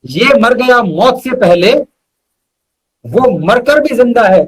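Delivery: measured shayari recital with weighty pauses; poetic recitation. Acted. Reciting his couplet to the host, measured and poetic. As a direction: lean into each line like a mushaira couplet.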